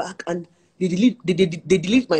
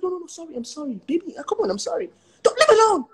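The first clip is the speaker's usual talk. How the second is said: mock whining plea; 10 semitones higher than usual. Retold plea to husband.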